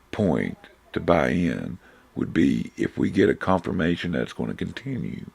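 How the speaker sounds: hoarse, losing voice. Real, not acted. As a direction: voice giving out mid-sentence. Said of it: "I'm losing my voice here".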